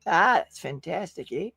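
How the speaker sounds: rough stab at a Minnesota accent; terrible Minnesota accent. Shown as a demonstration. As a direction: have a go at sounding Minnesotan. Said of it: "terrible shot at Minnesota".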